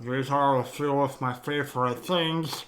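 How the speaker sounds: sung in a jowly, droopy-cheeked voice. Shown as a demonstration. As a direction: sing it with heavy jowls. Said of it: "the jowly voice".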